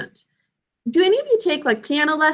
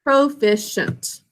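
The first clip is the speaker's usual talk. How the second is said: slow model; slower than usual. Shown as a demonstration. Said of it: "N, T".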